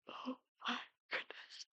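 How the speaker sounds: said through a yawn. Real, not acted. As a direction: yawn while you speak the words. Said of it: "I just keep yawning".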